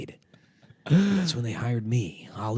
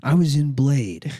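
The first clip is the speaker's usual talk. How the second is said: Steven Dorff impression.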